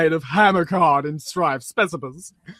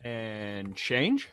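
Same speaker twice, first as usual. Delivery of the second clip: low, drawn-out villain purr on change; a lightly voiced cartoon devil; slow sinister tease; Him from Powerpuff Girls; 9 semitones lower, 13 dB quieter than usual. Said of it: "It's him. That's the voice I was doing. Him from Powerpuff Girls".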